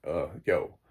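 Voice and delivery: mild imitation of a low-voiced teen; low Sean voice. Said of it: "I'm trying to do my Sean voice 'cause it's, like, really low".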